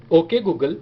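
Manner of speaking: measured, projected wake phrase for a phone; voice-assistant command tone on "ओके Google"; trained wake-word tone. Shown as a demonstration. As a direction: say "ओके Google" deliberately and firmly, drawn out. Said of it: "उसी tone में फिर से बोलूँगा जिस tone में मेरा phone समझता है".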